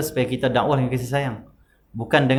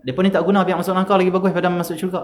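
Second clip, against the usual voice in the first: scornful; 5 semitones higher than usual. Retold or imitated. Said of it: "Dia faham sebaliknya".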